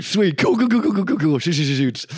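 rapid repeated cools, high and loud; jittery hype; nervous excitement. Retold or imitated. Reacting to Dalton's warning, high nervous excitement.

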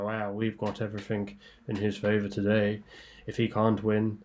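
a light, slowed imitation of a trainer's confident voice; Nicky Henderson impression. Punter lightly mimics the trainer he overheard at Kempton. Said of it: "my terrible Nicky Henderson impression".

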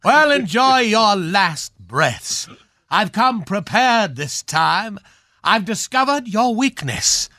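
rally your men like a hammy costume villain, then spring the trap; old film star reprising his villain's speech; hammy swashbuckler villain. Acted. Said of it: "Well, I recognize that speech".

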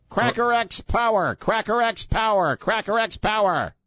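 high-pitched mock white-guy chant. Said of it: "let me use my white guy voice".

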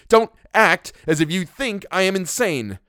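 high, loud, outraged demand; indignant, heated outburst; furious. A narrator's reading. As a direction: cry out in fury. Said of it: "trembling with fury".

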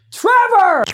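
high startled yell of a name; shocked shout. Real, not acted. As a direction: blurt it out in disbelief. Shocked call-out at friend.

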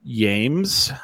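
"Yames" with a Y sound for the J; soft J. Shown as a demonstration. Host calls on James by a joke name, "Yames" starting with a Y sound. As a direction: say "Yames", J softened to a Y. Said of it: "with the soft J".

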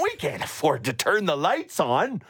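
high, whiny mock complaint; mock whiny rival team. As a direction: whine like a broke small-market team. Mocking other teams complaining.

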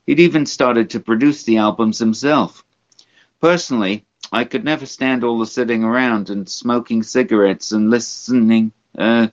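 lightly imitated rock star reading his memoir; a hint of a rambling rocker impression. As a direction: read it as the old rock star, lightly put on. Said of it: "I'm going to do it in a rock star's voice".

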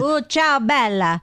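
playful stagey Italian; mock Italian accent. Co-host demonstrates the next sexy accent, mock Italian. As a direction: put on a cartoon Italian accent. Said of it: "Followed by Italian".

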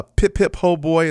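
hammed-up British "pip pip, ho boy"; a jolly mock British toff accent; playful fake British accent. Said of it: "in the best, uh, British, uh, accent that I can muster up".

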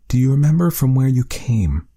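serious hushed question; whisper. Acted. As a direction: drop to a whisper as the tone turns grave. Friendliness fading into seriousness.

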